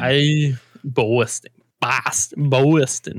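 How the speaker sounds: attempted Boston accent, "Boston" as BAW-stin. Shown as a demonstration. Friend practising the hard vowel, Boston accent. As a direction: keep trying "Boston" in its local accent. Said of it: "It's really hard".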